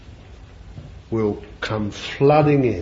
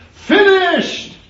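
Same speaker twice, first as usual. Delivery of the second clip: even higher, loud ringing mock yell; despairing yell; 7 dB louder than usual. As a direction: cry it out as if all is lost. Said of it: "he said".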